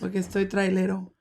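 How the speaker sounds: raspy, worn-out voice; hoarse voice. Real, not acted. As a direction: talk through a sore throat. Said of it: "Tiene voz de trailero el día de hoy".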